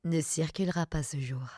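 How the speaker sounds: station announcer. Shown as a demonstration. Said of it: "en Belgique, c'est genre".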